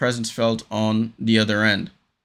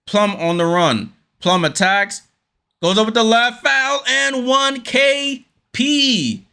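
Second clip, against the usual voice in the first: thrilled commentator shout; excited call; 9 semitones higher, slower than usual. Real, not acted. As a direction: scream out the big play. Commentator calls an and-one play.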